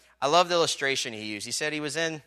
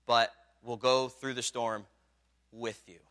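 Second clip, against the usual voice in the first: solemn quote; slower than usual. Retold or imitated. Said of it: "And he said".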